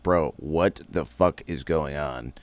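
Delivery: mock-exasperated bro talk; retold frustration. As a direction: drag it out in mild disbelief. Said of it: "he was getting super frustrated".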